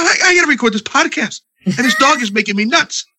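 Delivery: exasperated shout. Retold or imitated. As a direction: shout it, fed up. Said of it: "I said".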